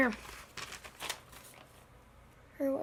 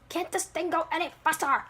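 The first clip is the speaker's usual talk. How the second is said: higher-pitched yell at no real volume; impatient mock yell; 5 semitones higher than usual. Crazy Apple stuck in the elevator, impatient mock yell. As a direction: complain in a raised, put-on voice. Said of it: "Crazy Apple yells".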